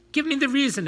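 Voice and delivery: high, loud angry bark; a furious demand. A narrator's reading. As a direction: bark it at him in a rage. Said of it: "Apelles barked".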